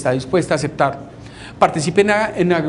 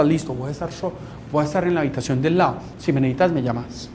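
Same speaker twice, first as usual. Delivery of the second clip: gentle reassurance; 3 semitones lower, 5 dB quieter, faster than usual. Retold or imitated. Gentle offer to depressed person.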